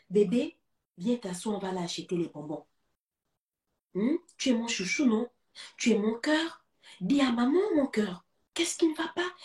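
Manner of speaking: put-on tender mother soothing her crying child; coaxing mother.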